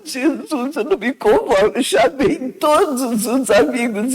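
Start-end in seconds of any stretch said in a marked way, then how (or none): 0.0-1.7 crying. Retold or imitated. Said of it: "E eu chorava".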